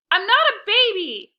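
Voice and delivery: loud, high indignant shout; shouting back. Acted. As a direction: yell back in offended protest. Sibling shouting match.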